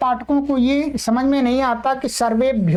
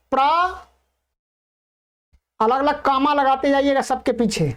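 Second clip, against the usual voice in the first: dictation. Shown as a demonstration. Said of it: "बाईस उपसर्गों को लिखिएगा क्रमानुसार".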